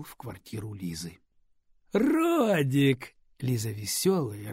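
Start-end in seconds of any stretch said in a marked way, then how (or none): 1.9-3.1 bright, loud happy call of a name; joyful greeting. Acted. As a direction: greet him with delight. Лиза радостно встречает Родика. (радостный возглас)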